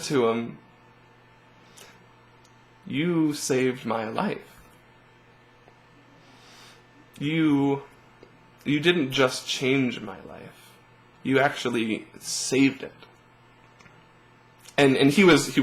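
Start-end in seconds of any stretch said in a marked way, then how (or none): 2.8-12.9 slow, choked-up thanks, close to tears; barely holding back tears; tearful. Retold or imitated. Thanking the YouTube employee who featured him, tearful. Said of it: "I started crying".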